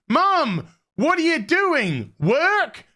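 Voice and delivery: high-pitched, exaggerated daughter voice; mock daughter. Daughter catching mum with papers, mock high questioning.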